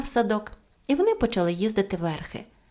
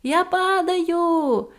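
very high, long-drawn cry; playful calling out; 10 semitones higher, 4 dB louder, much slower than usual. A narrator's reading. Pippi leaping off the roof, high drawn-out call. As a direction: sing out the call, stretching each vowel. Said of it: "гукнула вона".

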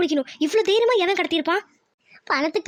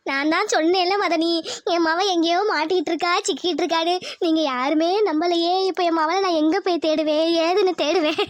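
crying. Acted. Mother laments her missing daughter to sister-in-law, crying. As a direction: wail it, ending in a sob. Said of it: "Lakshmi, அழாத".

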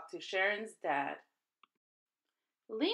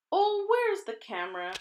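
excited teacher; 9 semitones higher, 4 dB louder than usual. A narrator's reading. Teacher wants a photo.

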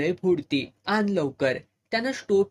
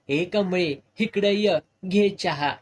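loud call across the house; 2 semitones higher, 5 dB louder than usual. Acted. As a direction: shout for Kamali to come here. Calling wife across house.

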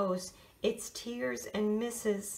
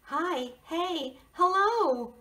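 rising, cheerful hello; bright greeting; 8 semitones higher, 4 dB louder, slower than usual. A narrator's reading. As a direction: sing out the greetings. Narrator voicing greetings.

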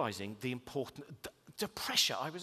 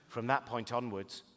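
chilling killer son; 3 semitones lower than usual. Pretend. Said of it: "He goes".

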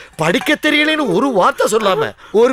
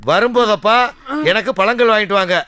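letter reading; 3 semitones lower than usual. Acted. Reading the daughter's letter aloud.

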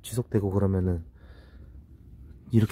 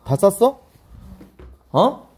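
high, loud interrogation; insistent questioning; 9 semitones higher, 5 dB louder, much slower than usual. Real, not acted. Husband grilling partner back from the toilet, high and insistent.

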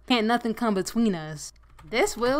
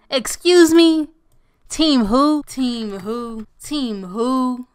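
indignant disbelief; 3 semitones higher, 4 dB louder, much slower than usual. Real, not acted. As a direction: call it out, loud and incredulous. Challenges companion about team loyalty.

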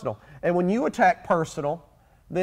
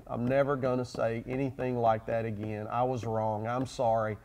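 sincere apology; 7 semitones lower, 7 dB quieter than usual. Retold or imitated. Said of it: "if you don't sincerely say".

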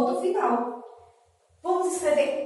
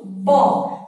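"bó" loud, standing on its own; separated syllable; 5 dB louder than usual. Shown as a demonstration. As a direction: land "bó" as a separate, loud beat. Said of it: "Nós estamos separando as sílabas".

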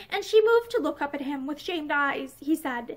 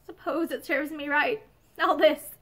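hoarse. Acted. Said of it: "she said hoarsely".

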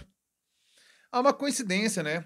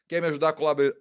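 usual speaking voice

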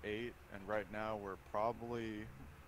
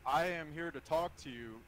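nervous breakdown; 4 semitones higher, 9 dB louder than usual. Real, not acted. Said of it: "This is me talking right now".

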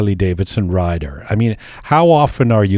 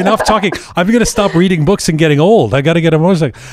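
higher-pitched, laughing mock urgency; lightly hammed-up eagerness, pitched up; playfully fired up; 6 semitones higher than usual. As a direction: jokingly declare you're dropping everything. Jokingly won over, wants to ride.

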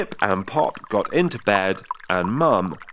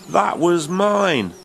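put-on high, loud childish protest "Hey"; a little frog objecting, loud and higher; outraged kid voice, loud and high; indignant protest; 8 semitones higher, 6 dB louder than usual. A narrator's reading. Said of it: "said Pop".

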